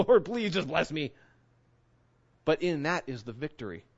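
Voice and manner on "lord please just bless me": light mock plea; begging Jacob. Jacob holds on and begs the Lord, mock pleading. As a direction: plead it with a half laugh. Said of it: "He's begging".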